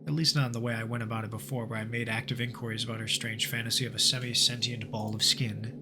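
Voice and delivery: measured narrator reading the game's journal; story narration. Acted. Gamer narrating the journal to viewers, steady storyteller voice. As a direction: read it like an eerie case file. Reads game story text aloud.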